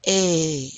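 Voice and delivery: A like the vowel in "way"; drawn-out A, rhyming with "way"; accent aigu sound. Shown as a demonstration. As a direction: say A as in English "way". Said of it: "like the English word way".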